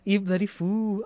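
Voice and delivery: imitating the duck. Echoing the duck clip.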